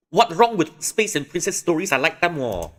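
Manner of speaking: put-on high, loud whiny kid; kid character voice. Kid protesting to his sibling in a high, loud whine. Kid defends space stories.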